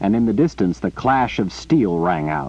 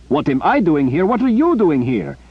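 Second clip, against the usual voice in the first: rising in disbelief, louder and higher; incredulous; 9 semitones higher, 4 dB louder than usual. Acted. Zimmer, stunned to find Rika here, incredulous. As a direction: throw her question back at her, amazed.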